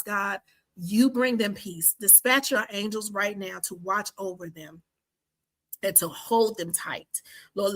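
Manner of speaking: spoken prayer in measured, emphatic phrases; heartfelt prayer. Real, not acted. Podcaster praying for her listeners, in an earnest prayer voice. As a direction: pray aloud earnestly, building through repeated petitions.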